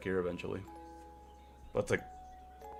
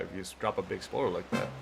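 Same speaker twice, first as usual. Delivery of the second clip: put-on wise old man voice. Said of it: "a more wise old man voice".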